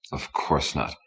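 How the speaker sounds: "Of course not" low, dismissive and soft; scornful "Of course not". A narrator's reading. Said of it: "Ricky's smile was scornful".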